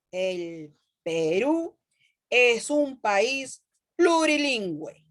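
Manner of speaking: slow, word-by-word reading; slow deliberate reading. Shown as a demonstration. Teacher reading the example again to her students, slowly and deliberately. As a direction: spell it out slowly for the class. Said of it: "signos de admiración".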